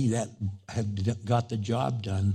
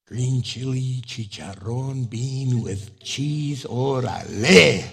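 slow, drawn-out relish of each filling; savoring food; slower than usual. Retold or imitated. Pastor savoring his burrito order, slow and relishing. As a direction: linger over each word like a tasty bite.

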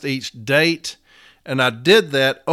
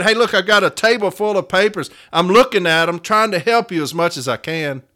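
pitched up and louder, swamped but eager; louder, busy steward; 4 semitones higher, 4 dB louder than usual. Retold or imitated. Steward tells a worker he is on it, louder. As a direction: call it out like a steward buried in papers. Steward voicing his own reply.

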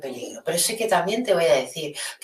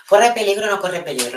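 louder, punching each half of the question; emphatic rhetorical question; 4 semitones higher, 7 dB louder than usual. Real, not acted. Streamer challenging her chat viewers, loud and emphatic. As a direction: put the question to the viewers with force.

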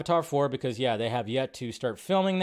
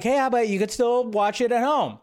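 higher, louder mock viewer voice; mock viewer quote; 8 semitones higher, 4 dB louder than usual. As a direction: playfully voice a cheeky viewer. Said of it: "we could be like".

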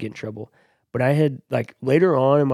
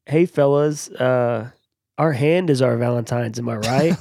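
put-on cocky kid voice; 4 dB louder than usual. Cocky kid addressing classmates.

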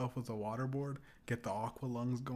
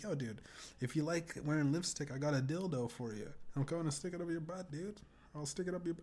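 higher-pitched mock roasting; retold roast; 5 semitones higher than usual. Roasting a guy who wears lipstick, mocking. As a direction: replay yourself ribbing a guy. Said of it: "I was roasting him".

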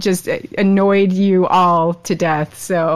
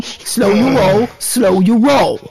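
slow, drawn out; slower than usual. Acted. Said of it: "You just need to calm".

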